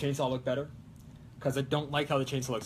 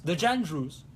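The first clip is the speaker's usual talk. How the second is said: put-on Italian accent; slower than usual. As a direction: say "the Jandrews" casually in a mild Italian accent. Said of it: "saying a French name in an Italian accent".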